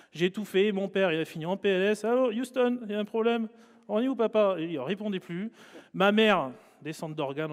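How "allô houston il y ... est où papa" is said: higher, hammed-up radio call; mock mission control call. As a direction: play it like a pilot radioing a lost base. Mock radio call to stunned father. (appel radio parodique, plus aigu)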